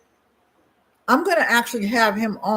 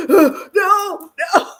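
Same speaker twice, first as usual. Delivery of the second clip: high, loud frightened no; boy pleading so he won't be spanked, high frightened cry; scared child; 11 semitones higher, 8 dB louder than usual. Retold or imitated. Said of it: "He's like".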